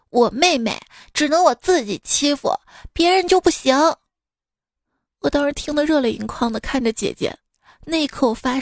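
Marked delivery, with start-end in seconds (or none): 0.1-3.8 rising to a high, loud protective shout; loud declaration. Retold or imitated. Big sister shouting at the bully who picked on her sister, loud and high. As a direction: bark it out like a fierce big sister. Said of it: "大声说".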